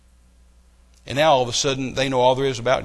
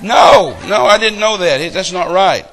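loud, high pulpit rejection; fiery preacher answering back; preaching shout; 5 semitones higher, 12 dB louder, slower than usual. Real, not acted.

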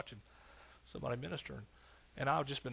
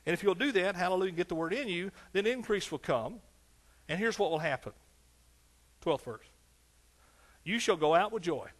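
high, loud revival preaching; rally the congregation from the pulpit; full-force preaching; 7 semitones higher, 5 dB louder than usual. Acted. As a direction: pulpit cadence, higher and louder, pushing each line.

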